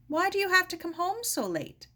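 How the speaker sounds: a touch of a fretting aunt; Aunt Jean asking. Acted. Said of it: "she'd asked".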